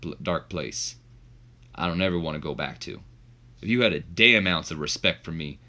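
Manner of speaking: lightly voiced grim wrestler; The Undertaker. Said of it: "Taker begins to speak in the mic".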